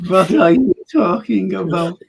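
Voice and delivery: put-on comic German-accented question; hammed-up German delivery; mock German accent. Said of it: "with German accents".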